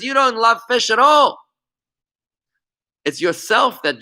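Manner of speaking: master's rebuke. Retold or imitated. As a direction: scold the fish-lover as the master. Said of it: "he says".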